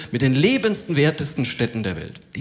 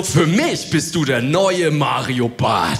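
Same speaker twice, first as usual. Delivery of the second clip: gushing fan; 4 dB louder, much slower than usual. Retold or imitated. Jogger gushing at comedian.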